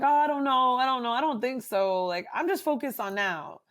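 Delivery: mock client shrugging it off; imitating client. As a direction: play the client waving it away. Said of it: "sometimes they're like".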